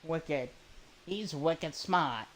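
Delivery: put-on mild Boston accent, smart with no r, slowed. Streamer imitating Boston locals, mild Boston accent. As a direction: drawl out He's wicked smart like a Bostonian. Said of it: "They say".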